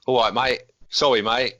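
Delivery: light mock Cockney accent; playful Cockney impression. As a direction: do a casual Cockney commentator. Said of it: "the Cockney commentary".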